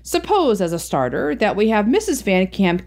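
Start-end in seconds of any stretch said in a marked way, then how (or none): 0.0-0.6 sly suggestion. A narrator's reading. Van Camp proposes a plan.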